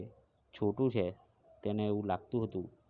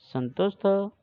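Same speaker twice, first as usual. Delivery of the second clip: raised pitch and volume, mildly cross; angry question; 9 semitones higher, 7 dB louder than usual. A narrator's reading. Angry Motu questions Chotu in Gujarati, mildly cross. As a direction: demand it with a touch of anger. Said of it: "મોટુ ખૂબ ગુસ્સે થયો".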